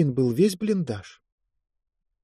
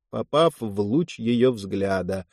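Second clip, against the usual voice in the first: ordinary delivery, nothing marked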